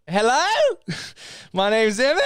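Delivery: teasing imitation of a girlfriend's British accent; mock British accent. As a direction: lampoon her British accent while laughing. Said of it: "her accent".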